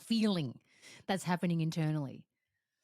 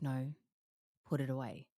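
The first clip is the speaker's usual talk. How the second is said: calm firm command; 3 semitones lower, 3 dB quieter than usual. Retold or imitated. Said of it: "And it's calm".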